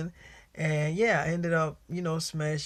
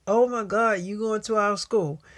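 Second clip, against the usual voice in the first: put-on higher, mildly amazed girl's voice; imitated surprise; 4 semitones higher than usual. Girl recognizing the new boy at her school, mock surprise. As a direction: retell her pleasant shock, pitched up.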